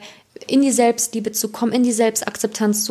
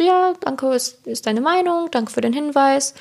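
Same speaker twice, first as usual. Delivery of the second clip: polite brush-off; 4 semitones higher than usual. Retold or imitated. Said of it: "Ich hab gesagt, so".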